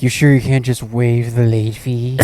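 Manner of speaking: slow, lightly coaxing imitation; a hint of flirty mom; playing the hot chick. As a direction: draw out the request flirtatiously. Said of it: "tried to play, like, the, the hot chick".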